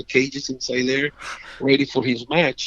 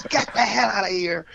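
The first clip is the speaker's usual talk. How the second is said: mock yell; 7 semitones higher, 3 dB quieter than usual.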